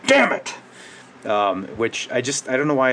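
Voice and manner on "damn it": much higher, louder mock "Damn it!" shriek; mock outburst behind hand. Shown as a demonstration. At bingo when someone else wins, a high mock yelp. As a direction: yelp it high through covered mouth like a sore loser. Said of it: "I'll go".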